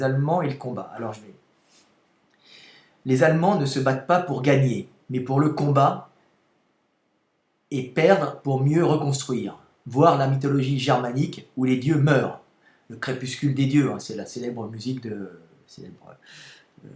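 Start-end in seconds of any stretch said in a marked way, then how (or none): 3.1-13.9 loud, declamatory text reading; reading aloud. Real, not acted. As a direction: read it out forcefully in measured phrases. Reads own text aloud.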